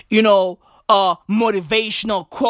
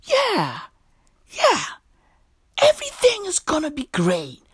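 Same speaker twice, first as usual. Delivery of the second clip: mock cheerful reader; 6 semitones higher than usual. Comic mocking the sticker's reader, higher and mock-sunny. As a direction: parody a naive optimist. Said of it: "wanted people to read that shit and go".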